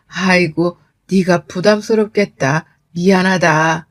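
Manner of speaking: lightly voiced, apologetic older relative; a touch of sheepish fluster; flustered father-in-law. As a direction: apologise as if at a loss, mildly. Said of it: "라고 하면서 쩔쩔 매셨고요".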